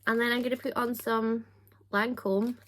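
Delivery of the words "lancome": badly faked French accent on the brand name; terrible French accent. Vlogger naming her Lancome product, terrible French accent. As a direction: put on a clumsy French accent. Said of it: "That was a terrible accent".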